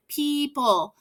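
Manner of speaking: "People" said as PEE-pul, no O sound; teacher models "People" for kids, sounding out the silent O. Shown as a demonstration. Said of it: "The O is silent".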